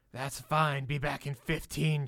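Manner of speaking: a lightly voiced gruff manager; mild growl. Hotel manager Helen granting a break, mild growl. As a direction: grumble permission, lightly gruff. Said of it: "she growled at me".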